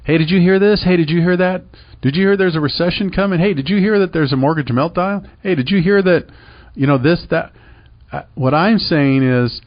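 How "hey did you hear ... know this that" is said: mock gossip. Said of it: "tell everybody else about it".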